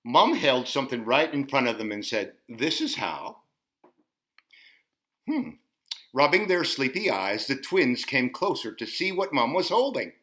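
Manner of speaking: lively storytime read; picture-book storytime voice; reading to children. Acted. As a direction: read the book to little ones. Reads picture book to kids.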